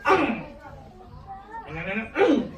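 quick playful chomp sound; chomping noise. Acted. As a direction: imitate a sudden snap of a bite. Acting out the snake bite.

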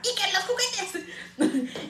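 slow, high braying mock voice through laughter; donkey voice. Mocking her own nagging to her son, slow braying voice. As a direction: bray it like a silly donkey. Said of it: "hablo como la burrita burrona".

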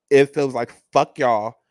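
loud indignant swear; angry outburst. Real, not acted. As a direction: spit it out, offended. Angry at show producers.

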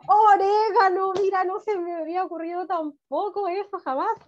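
delighted teacher surprise; excited praise. Real, not acted. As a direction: act amazed for the pupil. Praising a pupil's answer.

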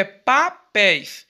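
"papéis" split in syllables, weight on the ending "péis"; stressed ending ÉIS. Shown as a demonstration. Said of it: "Terminou com éis". ("papéis" silabado, destacando o final "éis")

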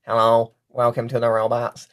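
flat robotic voice demo. Shown as a demonstration. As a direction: speak like a robot. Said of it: "you can absolutely put effects on your voice, like".

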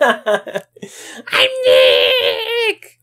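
low, laughing through the name; laughing retry. Shown as a demonstration. Trying the device again, laughing low. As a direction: say it again while cracking up. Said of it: "Maybe I'm not saying it loud enough".

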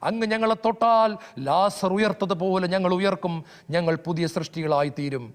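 fervent spoken prayer to Jesus; earnest prayer. Real, not acted. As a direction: pray aloud, pleading to be touched. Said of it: "കണ്ണുകളടയ്ക്കാം, പ്രാർത്ഥിക്കാം". (തീവ്രമായ പ്രാർത്ഥന)

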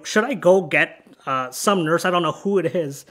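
lightly voiced innocent suggestion, quick at the end. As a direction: offer it casually, as if clueless. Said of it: "almost in an innocent way".

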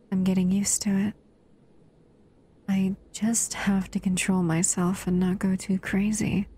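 hushed self-restraining whisper. Acted. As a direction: whisper it, keeping yourself in check. Restraining herself while cuddling.

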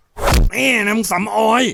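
slow, high, loud menacing snarl; growling on. Acted. Prayong sneering at Jaem after kicking her, slow furious growl. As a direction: spit each word slowly with contempt. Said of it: "พร้อมคำรามต่อ".

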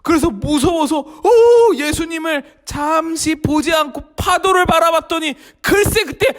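ordinary talk, nothing marked

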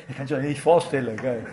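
usual speaking voice

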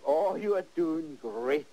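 slow, gentle pep talk to yourself; slow self-encouragement. Retold or imitated. Painter coaching viewers to praise themselves, slow and gentle. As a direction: reassure yourself slowly. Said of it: "you tell yourself".

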